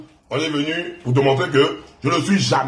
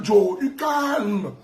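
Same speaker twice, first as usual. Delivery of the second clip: Joe, du calme traîné très lentement en criant; étire chaque syllabe pour le narguer; moquerie étirée; 4 semitones higher, much slower than usual. Acted. Mocking chant at rival. (raillerie lente et criée)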